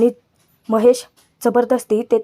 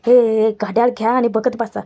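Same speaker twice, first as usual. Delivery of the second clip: lightly acted exasperation; mild retold irritation. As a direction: imitate someone fed up with being pestered. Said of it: "धन्या आता चिडचिड करतो की".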